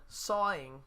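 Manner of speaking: soaring said as "sawing", New Jersey style; New Jersey accent. Shown as a demonstration. Musician teasing own word to chat, New Jersey accent. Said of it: "excuse my New Jersey accent".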